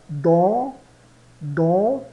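"dans" bem nasalizado, vogal pelo nariz; nasal dans. Shown as a demonstration. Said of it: "bem nasalizado". (professora demonstra o "dans" nasal)

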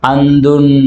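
అందున్ drawn out onto a held n; final n shown. Shown as a demonstration. Teacher repeating the example word, అందున్ with held final n. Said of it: "ఇక్కడ పలికే".

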